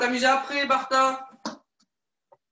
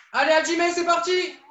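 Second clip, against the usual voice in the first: energetic coach call; 5 semitones higher than usual. Real, not acted. Coach starting the drill.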